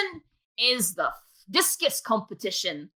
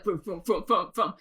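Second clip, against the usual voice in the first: imitated noise; 4 semitones lower than usual. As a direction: make lumbering vroom noises, pitched down. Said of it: "Taurus is just like".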